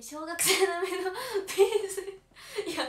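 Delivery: loud, high burst of laughter through the words; laughing too hard to speak evenly. Real, not acted. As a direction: crack up while reading it out. Laughs at comment on her pose.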